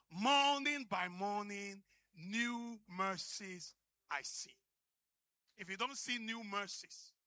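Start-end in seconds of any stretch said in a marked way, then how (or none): 0.1-4.6 louder and slow, leaning on morning; proclaimed hymn line. Shown as a demonstration. Preacher claiming the hymn for himself, louder and slow. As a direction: declare the lyric as your own testimony. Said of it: "but, but this is for me".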